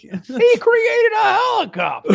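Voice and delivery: high, slow laughing voice; laughing through the line. Pretend. Laughing in character voice.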